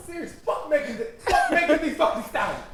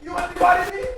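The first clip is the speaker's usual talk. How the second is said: mock Michael Blackson accent; 4 semitones higher than usual. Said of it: "That's exactly the fucking accent that was going for".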